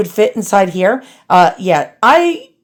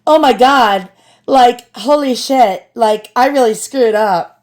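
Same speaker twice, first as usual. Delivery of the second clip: put-on bubbly valley girl gushing; like-filled valley girl whine; slower than usual. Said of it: "I'm gonna sound like a Valley girl right now".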